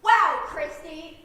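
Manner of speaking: slow, loud mock amazement; fake-impressed, slow and loud; sarcastic wow. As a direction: drag out the wow to mock her. Mocking Christy's obvious remark.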